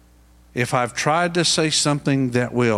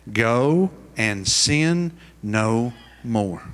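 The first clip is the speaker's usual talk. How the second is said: gentle, loving; 2 semitones lower, much slower than usual. Retold or imitated. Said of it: "with all the love and care".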